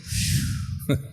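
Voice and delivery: long wordless breath out; imitated exhale. Counselor imitating the pastor's relieved breath, exhaling. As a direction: blow all the air out. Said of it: "Your pastor even went".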